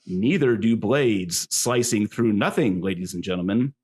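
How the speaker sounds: hammed-up emcee cadence; wrestling announcer. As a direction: address the crowd grandly. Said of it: "my best wrestling announcer voice".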